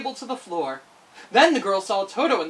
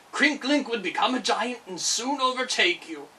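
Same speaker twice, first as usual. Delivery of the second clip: bear voice; 3 semitones higher than usual. Acted. Bear keeps speaking.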